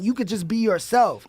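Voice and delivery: ordinary talk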